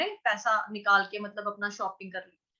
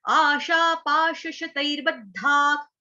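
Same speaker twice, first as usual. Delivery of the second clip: slow recitation; slower than usual. Shown as a demonstration. Teacher reciting the shloka slowly for students. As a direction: chant आशा पाश शतैर्बद्धाक slowly, syllable by syllable. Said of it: "काम".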